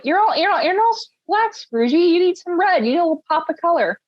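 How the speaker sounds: high, chirpy scolding friend; high Muppet voice urging some red; playful Muppet voice. Retold or imitated. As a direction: fuss over Scrooge like a cheery little helper. Voicing the Muppet giving scarf.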